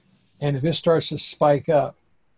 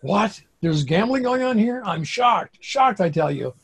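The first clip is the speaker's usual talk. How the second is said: Casablanca quote; 6 semitones higher than usual. Retold or imitated. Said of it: "what was that movie, Casablanca".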